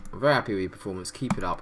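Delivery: fast, mock-passionate praise to the players; quick, half-hearted passionate team talk. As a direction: rattle it off like a hurried pep talk. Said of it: "I'm gonna passionately say".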